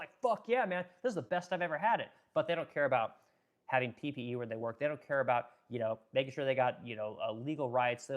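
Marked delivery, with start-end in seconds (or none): 0.2-2.1 delighted immigrant. Retold or imitated. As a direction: play a worker thrilled with eighty-hour weeks. Immigrant's delighted reaction, acted.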